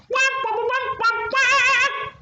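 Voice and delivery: high sung wah wah like a horn; trumpet imitation. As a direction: blare it like a trumpet.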